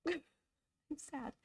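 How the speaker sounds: amused, half-joking admission; laughing. Real, not acted. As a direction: giggle at your own sadness. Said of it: "I am sad".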